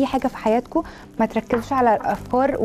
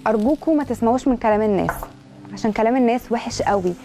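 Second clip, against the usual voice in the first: ordinary talk, nothing marked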